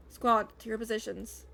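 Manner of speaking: loud squad order; a leader shouting his team into place; shouted command. Acted. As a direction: bark it at the troops.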